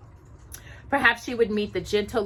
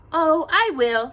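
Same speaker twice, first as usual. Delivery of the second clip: higher, slower eager promise; happily; 9 semitones higher, 6 dB louder, slower than usual. Acted. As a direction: promise it gladly, lifted. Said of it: "Cinderella promised happily".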